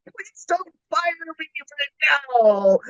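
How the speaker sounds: slow, high, nervous whispered plea; half-joking frightened whisper; mock pleading whisper. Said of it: "And I said".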